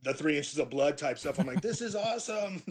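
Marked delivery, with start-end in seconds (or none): 1.6-2.6 high metal note. Retold or imitated. Singer showing off his new high notes, high shrieked voice. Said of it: "high notes where I'm like".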